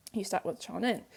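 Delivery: soft restatement of "You start with 저는"; quiet repeat. Shown as a demonstration. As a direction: repeat "You start with 저는" gently to drive it home.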